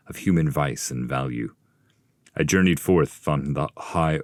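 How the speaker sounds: Ulysses the voyager. Acted. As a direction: recount the voyage with bold pride. Ulysses tells his voyage.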